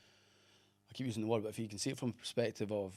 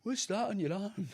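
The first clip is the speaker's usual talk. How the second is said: put-on high, slow child's voice; curious kid; 10 semitones higher than usual. Kid coming up to ask about the arm, high curious child voice. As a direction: imitate a little kid asking. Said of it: "when kids come up to you".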